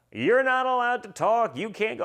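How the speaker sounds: mock the lawyers' stern alarm. Lawyers warning him to stay quiet.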